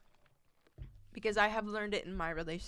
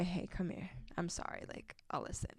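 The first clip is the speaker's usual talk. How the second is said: soft apology; 7 dB quieter than usual. Retold or imitated. Voicing a boyfriend's apology.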